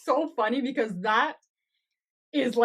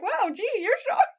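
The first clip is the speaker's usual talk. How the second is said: high, hammed-up amazement; gee-whiz astonishment, imitated; mock surprise; 11 semitones higher, 3 dB louder than usual. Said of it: "It's just surprised".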